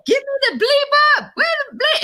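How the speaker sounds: mock desperate cursing shout; cursing yell. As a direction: yell the cussing, dragged out. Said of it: "She's like".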